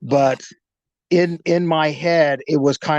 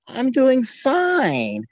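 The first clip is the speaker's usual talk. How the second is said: put-on high, drawn-out German accent; 8 semitones higher, much slower than usual. German stranger making small talk on the street, German accent. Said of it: "German accent".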